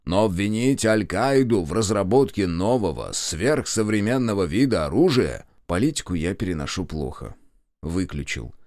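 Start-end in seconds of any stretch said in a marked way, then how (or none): 0.0-5.4 lightly voiced radio announcer; booming radio announcer. A narrator's reading. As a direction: announce it like a newsreader. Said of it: "трубный голос диктора". (трубным голосом диктора)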